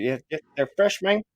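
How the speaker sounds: hint of a Cuban street seller; Cuban accent. Researcher selling at the market vouches for his goods, Cuban accent. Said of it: "I don't know why I'm doing a Cuban accent".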